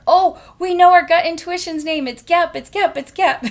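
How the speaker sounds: high, loud triumphant eureka; thrilled. Retold or imitated. Telling clients the gut character's name, high and thrilled. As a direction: announce it like you just cracked the code. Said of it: "I'm like".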